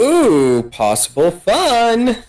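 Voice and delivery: high flirty ooh. Retold or imitated. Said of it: "They're like".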